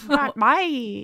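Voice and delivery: a hint of a gruff East London hardman; lightly voiced cockney thug calling someone out; imitating a London geezer, mild; Phil Mitchell. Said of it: "That was Phil Mitchell again".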